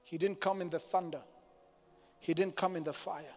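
hushed, low preaching; still small voice. Real, not acted. Evokes God's still small voice.

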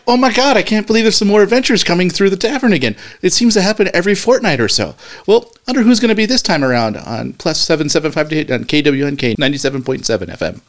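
high, loud, gushing socialite voice; nicely dressed woman. Acted. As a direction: exclaim high and loud, sliding down towards normal pitch. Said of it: "Hearing him just make that voice".

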